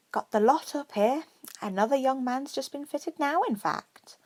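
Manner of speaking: brisk, loud, high shopkeeper voice; chirpy shop witch. Acted. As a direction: greet him like a busy seamstress. Shop witch keeps talking.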